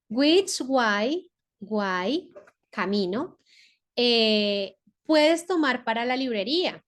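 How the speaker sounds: slow reading with Spanish gloss; English sentence with glosses. Shown as a demonstration. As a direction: read and translate word by word. (lectura pausada con traducción)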